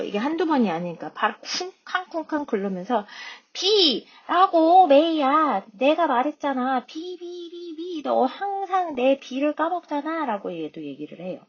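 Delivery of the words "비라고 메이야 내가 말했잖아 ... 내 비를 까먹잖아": high, loud scolding that fades to hushed B's; angry little girl. Acted. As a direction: stamp and scold May. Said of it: "화가 났어". (화난 여자아이가 꾸짖듯이)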